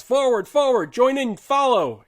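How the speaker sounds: loud, high, drawn-out battle cry; yelled command. A narrator's reading. Lieutenant to his men in the attack, yelling orders. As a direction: yell the orders across the battlefield. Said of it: "He sees us and yells".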